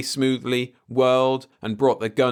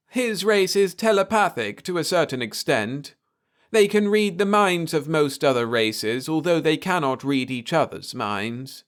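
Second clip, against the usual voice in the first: alien soothing a frightened man; 6 semitones higher than usual. A narrator's reading. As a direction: reassure him gently, an odd alien calm. Alien explains.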